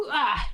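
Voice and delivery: short little "ah" on impact; startled impact yelp. Acted. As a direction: yelp as you hit a bush. Acts bird hitting the bush.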